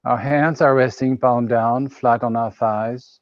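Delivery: unhurried meditation guidance with pauses; calm, spaced-out phrases settling downward; guided meditation. Real, not acted. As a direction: guide listeners gently into the present moment.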